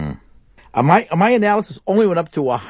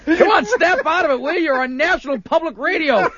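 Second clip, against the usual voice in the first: laughing through it; 8 semitones higher than usual. Real, not acted. Telling partner to stop laughing.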